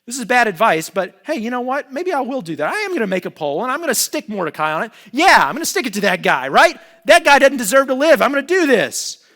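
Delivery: vengeful resolve. Retold or imitated. Haman resolving to kill Mordecai, loud and gloating. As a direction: hype yourself into revenge. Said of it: "Haman deciding on the pole".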